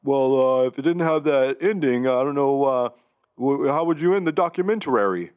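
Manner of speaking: mock Ultimate Warrior pondering the ending; Ultimate Warrior impression. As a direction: ham up the Warrior's growly intensity. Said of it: "at one point he says".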